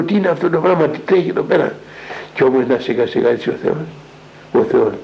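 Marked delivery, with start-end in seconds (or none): 0.0-1.7 high, startled questioning; retold shock, pitched up; alarmed outcry. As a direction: priest recalling his own alarm, higher voice. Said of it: "ταράχτηκα".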